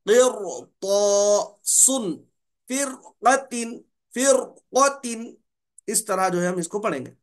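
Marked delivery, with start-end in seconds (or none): 0.1-5.4 क़िरतासुन and फ़िरक़तिन slow, ra said thick; heavy ra. Shown as a demonstration. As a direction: model फ़िरक़तिन carefully with a heavy ra. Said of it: "हम पढ़ेंगे रॉ को मोटा". (मोटा रा, धीरे उच्चारण)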